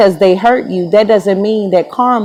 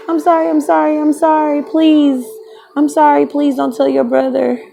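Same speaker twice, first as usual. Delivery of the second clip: high, pleading sorry with a laugh breaking in; pleading high-pitched apology to the ex's brother; mock frantic apology; 7 semitones higher than usual. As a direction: beg forgiveness in a squeaky, giggly voice. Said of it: "I'm like".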